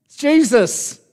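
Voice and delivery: breezy hey-it's-me greeting; Jesus casually reassuring his friends. Retold or imitated. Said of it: "In other words".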